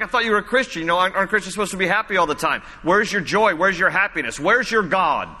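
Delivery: retold taunt, lightly pressed; mock taunting. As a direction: imitate needling critics with quick challenging questions. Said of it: "They're taunting him".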